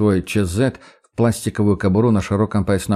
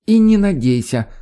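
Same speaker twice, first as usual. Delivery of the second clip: laughing retort; 9 semitones higher than usual. A narrator's reading. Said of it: "заливисто хохочет эта зараза".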